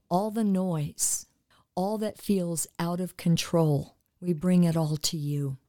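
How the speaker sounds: earnest, steady prayer voice for listeners; spoken prayer. Acted. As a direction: pray over the audience with calm conviction.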